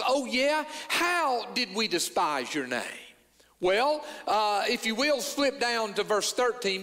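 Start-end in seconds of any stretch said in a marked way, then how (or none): 0.0-2.8 sarcastic retort. Retold or imitated. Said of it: "sarcastic they are in their response".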